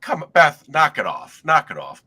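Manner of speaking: loud playful scolding; scolding friend. Retold or imitated. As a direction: tell your friend to drop the prank. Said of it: "I'm like".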